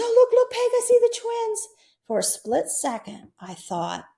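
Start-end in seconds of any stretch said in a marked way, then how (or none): 0.0-1.7 high, eager calling out to a friend; excited exclaiming. Retold or imitated. Friend calling to Peg about seeing the twins, high and excited. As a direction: point it out like you've just seen something wonderful.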